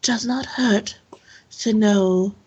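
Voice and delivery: soft start, measured, lightly voiced self-defence; defensive temple questioner. Temple woman defending her questions to the man, softly defensive. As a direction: mildly justify yourself in a restrained character voice.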